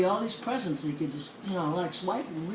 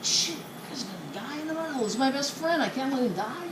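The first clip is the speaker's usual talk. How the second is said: higher, hurried mock alarm; fretful chicken; 4 semitones higher, 4 dB quieter than usual. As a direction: fret over a friend, quick and pitched up. Chicken frets over sinking friend.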